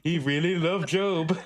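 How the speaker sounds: high, slow mock Brazilian accent; awed follower in a hammed-up accent; mock accent, drawn out; put-on foreign accent. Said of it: "incorporating this accent".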